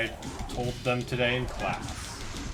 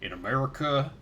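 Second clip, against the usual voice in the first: interviewee voice. Acted. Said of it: "now you're also the person they're interviewing?".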